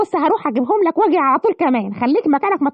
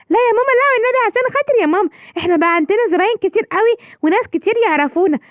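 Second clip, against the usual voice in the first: put-on higher, begging child voice; pleading child; 5 semitones higher than usual. Son begging mother to keep the restaurant, pleading. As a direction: plead with mom not to close.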